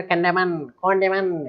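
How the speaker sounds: "कंडेमन" with drawn-out -man ending; wrong N sounded. Retold or imitated. Teacher warning against this reading, "कंडेमन" with N sounded. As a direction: repeat "कंडेमन", pronouncing the last N. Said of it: "ऐसे नहीं बोलना है भाई".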